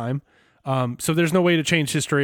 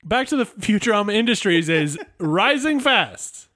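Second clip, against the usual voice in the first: newsreel announcer; 3 semitones higher than usual. Acted. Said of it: "That sounds like a newsreel".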